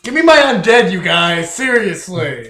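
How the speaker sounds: shouting, indignant; loud demand. Real, not acted. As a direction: demand it back at full volume. Demanding undead back from friends.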